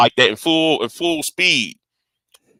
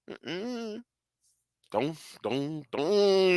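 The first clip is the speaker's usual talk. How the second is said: very quiet, halting warding-off; retold muted refusal; 2 semitones higher, 15 dB quieter, much slower than usual. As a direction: refuse help as if unable to talk. Retold refusal to his mother.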